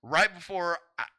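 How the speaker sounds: high, loud frustrated outburst; angry. Real, not acted. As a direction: sputter with rising anger. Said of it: "did that make me angry".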